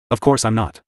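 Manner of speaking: lightly gritted teeth, tight jaw; a hint of forcing it through clenched teeth. A narrator's reading. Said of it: "said through gritted teeth".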